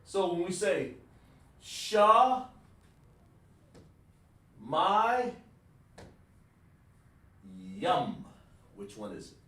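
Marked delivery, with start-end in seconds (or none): 1.6-8.2 "Sha, my, yum" split into three slow separate syllables with long gaps. Shown as a demonstration. Teacher breaking a Hebrew word into syllables for students, slow and separate. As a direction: break "Sha, my, yum" apart, one beat per syllable. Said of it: "How do you break that down".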